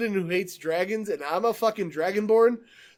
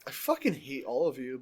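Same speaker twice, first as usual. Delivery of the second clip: sulky grumble; 5 semitones lower, 6 dB quieter than usual. Pretend. Grumbling at friends' teasing.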